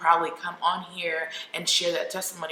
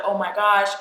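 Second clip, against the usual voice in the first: louder retold gasp of horror; mild mock scream; 6 dB louder than usual. Mom sees blood everywhere, mild retold scream. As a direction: exclaim it louder, short of screaming. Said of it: "She starts screaming".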